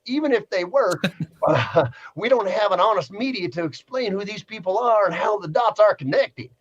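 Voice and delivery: lightly hammed-up Southern accent. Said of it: "I gotta throw an accent on this one".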